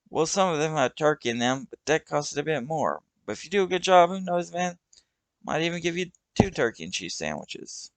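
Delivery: put-on the kid's voice. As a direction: bargain like a puffed-up teen. Kid offers turkey sandwiches.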